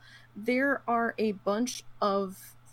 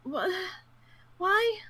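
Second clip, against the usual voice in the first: livid disbelief; 10 semitones higher than usual. Retold or imitated. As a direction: cry out what-why in outrage. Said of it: "I was kinda livid".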